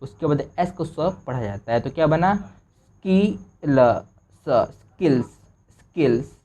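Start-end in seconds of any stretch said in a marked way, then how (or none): 2.4-5.2 slowly spelled-out स्किल; slow sounding out. Shown as a demonstration. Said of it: "ऐसे आप अगर तोड़ तोड़ के पढ़ोगे". 5.2-6.3 slow, clear स्किल्स; slow final reading. Shown as a demonstration. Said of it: "ऐसे आप अगर तोड़ तोड़ के पढ़ोगे".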